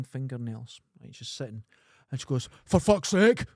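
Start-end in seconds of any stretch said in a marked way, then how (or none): 2.6-3.4 shouted curse, high and loud; loud outburst. Retold or imitated. Girl in court waiting room shouting in frustration. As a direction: yell it so the whole room turns. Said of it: "Loud as fuck".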